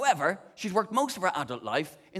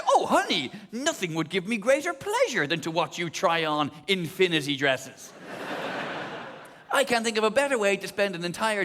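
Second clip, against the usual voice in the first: camp bridal salesman. Retold or imitated. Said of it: "And the guy".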